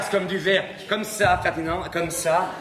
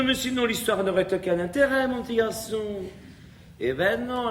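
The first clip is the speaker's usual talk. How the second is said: ordinary delivery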